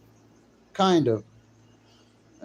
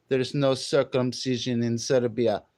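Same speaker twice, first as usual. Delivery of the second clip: put-on Serbian correction; mock Serbian accent; 2 semitones lower than usual. Streamer resuming his Serbian character, mock Serbian accent. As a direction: state it in a fake Serbian accent. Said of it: "I'm from Serbia".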